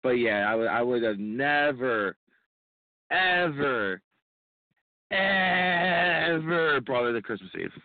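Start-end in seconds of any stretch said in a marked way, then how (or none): 3.1-7.7 EVER stretched slow and high; drawn-out ever. Real, not acted. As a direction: lean on each ever slowly, rising pitch. Drawn-out emphasis on never ever.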